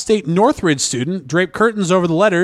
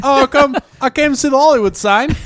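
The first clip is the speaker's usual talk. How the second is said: attempted Australian accent; 6 semitones higher than usual. Shown as a demonstration. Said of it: "I can do this".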